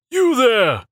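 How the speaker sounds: high, loud bark; commanding shout. A narrator's reading. Shorter acolyte pointing at Rowan, high commanding shout. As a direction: snap an order at him.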